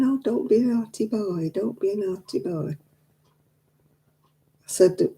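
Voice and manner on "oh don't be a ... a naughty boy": put-on whispered, half-hearted "don't be a naughty boy"; mock soft telling-off. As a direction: imitate a limp, pleading parent, fading quieter. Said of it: "It's no good saying".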